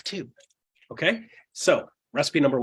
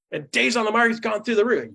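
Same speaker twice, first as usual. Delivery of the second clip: higher, pushing the point; emphatic push; 7 semitones higher than usual. Retold or imitated. Speaker grilling audiences on the market, emphatic. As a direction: press them with each fact.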